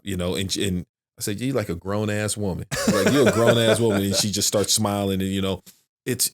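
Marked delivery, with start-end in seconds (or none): 1.4-4.0 laughing through it. Real, not acted. Praising daughter, laughing.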